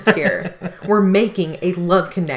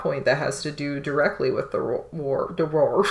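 talking around a sip of water; mid-sip, half swallowed words; while sipping a drink; 3 semitones lower, 5 dB quieter than usual. Real, not acted. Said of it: "Sorry, I'm trying to drink some water".

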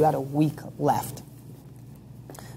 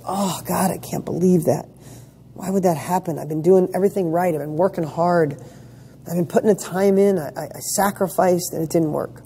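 mildly deflated, whining a little; a touch of woe over wasted effort; self-pitying. Retold or imitated. Person whose hard work failed, lightly mock self-pitying. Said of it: "You go".

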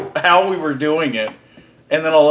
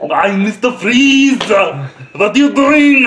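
Arnold as Mister Freeze; 3 semitones higher, 3 dB louder, much slower than usual. Pretend. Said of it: "it didn't change at all".

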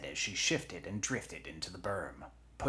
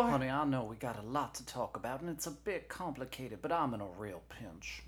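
higher-pitched, hurried sweet-talker; Jesse; 7 semitones higher than usual. Acted. Knee pleads with lieutenant for help, coaxing. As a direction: coax urgently with raised pitch.

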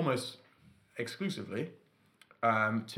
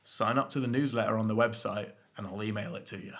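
slipping into Australian; 3 semitones lower than usual. Real, not acted. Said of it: "You went a bit Australian".

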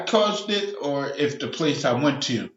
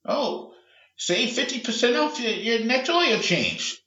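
high-pitched mock sales voice; put-on high promotional lilt; mocking coupon pitch; 7 semitones higher than usual. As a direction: read the offer with scornful sweetness.

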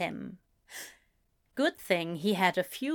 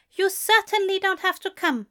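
higher, louder cold reply; Aziraphale's voice; 10 semitones higher, 4 dB louder than usual. A narrator's reading. Aziraphale snubbed by Crowley, higher and cold. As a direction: gone frosty and offended.

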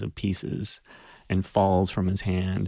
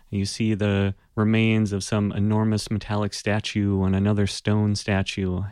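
normal talking voice

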